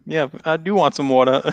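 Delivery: exaggerated Boston wattah, teasing; mocking Boston accent. Daughter mimicking Dad's Boston accent, teasing. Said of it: "why are you making fun of me".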